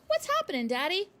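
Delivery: high, loud alarmed plea; a child panicking at the packing; frightened cry. A narrator's reading. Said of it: "she cried".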